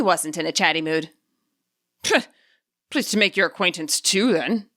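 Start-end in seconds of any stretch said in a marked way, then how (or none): 2.0-4.7 put-on mildly hurt old man muttering. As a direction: sulk it under his breath. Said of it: "Root muttered, his hurt palpable".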